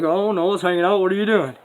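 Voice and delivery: high, loud, hammed-up exchange; put-on hollering, pitched well up; mock confrontation. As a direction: act out the shouted back-and-forth. Acted shouting exchange with woman.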